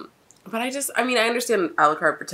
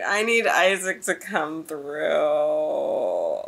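drawn-out plea; 2 semitones lower, much slower than usual. Real, not acted. Pleads for character to help.

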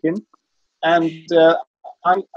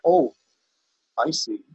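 put-on Rhys Vaughan's Welsh accent; slower than usual. Lawyer to the gallery after the farmer's answer, knowing rough Welsh. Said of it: "I can't really do the Welsh accent".

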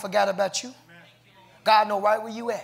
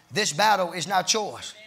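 "this battle is not yours" spaced out with weight on "not"; emphatic stress; slower than usual. Real, not acted. Preacher emphasizing whose battle it is, "not" stressed. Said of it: "I'm emphasizing".

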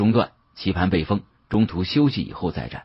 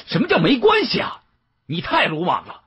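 much higher, exasperated rebuke; angry outburst; 11 semitones higher than usual. Acted. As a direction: flare up at her, pitch jumping high. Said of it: "我是真的恼了".

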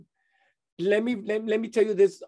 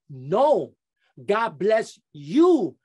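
emphatic blessing; 4 dB louder, much slower than usual. Retold or imitated. Man answers blessing emphatically.

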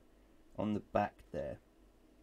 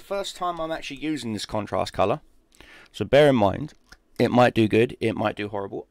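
loud, emphatic warning; 15 dB louder than usual. Real, not acted. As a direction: belt it out with emphasis. Unsure of new paint.

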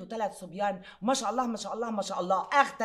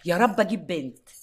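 praying woman; 5 semitones lower, 9 dB louder than usual. Acted. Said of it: "راحت داعية وقايلة".

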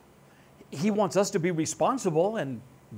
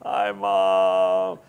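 much lower, meek hello; sheepish son; 9 semitones lower, 5 dB louder than usual. Retold or imitated. Guilty son greeting his mother on speakerphone, low and meek. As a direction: mumble hi like a guilty kid.

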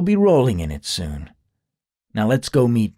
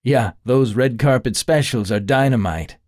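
with a grin; 3 semitones higher than usual. Acted. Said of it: "Kyle said with a grin".

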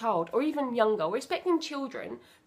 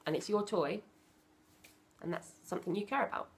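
calm explanation; 2 semitones lower, 5 dB quieter than usual. Shown as a demonstration. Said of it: "I say".

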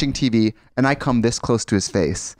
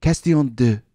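language tape voice; slower than usual. Retold or imitated. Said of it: "it would be like".

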